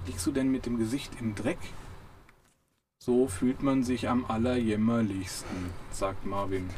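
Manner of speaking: reading a novel passage aloud; lively audiobook narration with character voices; story reading. A narrator's reading. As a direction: read it like an audiobook chapter. Reads book passage aloud.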